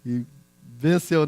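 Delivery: usual speaking voice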